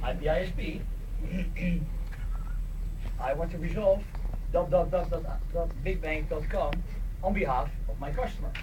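ordinary talk

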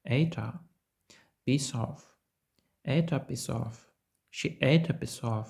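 "ate a" and "piece of" each run together; linked ate a piece of. Shown as a demonstration. Teacher drilling linking in a sentence. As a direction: link the t and the s into the next vowel. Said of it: "Де тут можливе зв'язування?".

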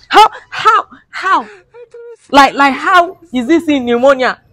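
high, wailing mock sob of "how"; mock crying. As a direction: ham up a tearful protest. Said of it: "It's very hot me".

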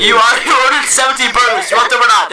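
irritated cashier. Acted. Cashier snaps at customer.

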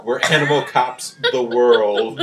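laughing. Real, not acted. Laughing announcement.

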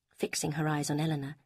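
ordinary delivery

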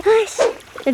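startled curse, slipping; 미끄러져 놀라서 욕; cursing under breath. Real, not acted. Slipping on rocks. (미끄러지며 내뱉는 욕설)

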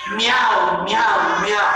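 sing-song cat meows; playful cat meowing. Shown as a demonstration. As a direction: meow meow like a cat. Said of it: "decimos como gato".

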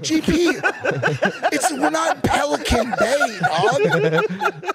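loud, high-pitched exasperation; exasperated protest. Retold or imitated. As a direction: plead loudly with an overbearing man. Retold exasperated plea to GP.

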